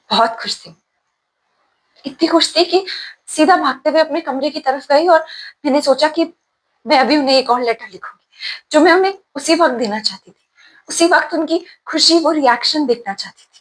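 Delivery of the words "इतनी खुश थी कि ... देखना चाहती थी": higher-pitched, eager recollection; a touch of childlike eagerness; happy excitement. Acted. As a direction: let remembered joy lift the voice. Recalls running happily to write letter.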